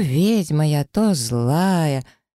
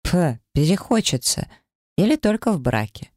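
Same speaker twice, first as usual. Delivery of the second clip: snorting dismissively; 4 semitones higher than usual. Acted. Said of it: "фыркаю".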